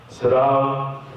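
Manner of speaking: low-pitched curt official; stern interrogator. Retold or imitated. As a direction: order them like an interrogator. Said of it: "the tone became immediately different".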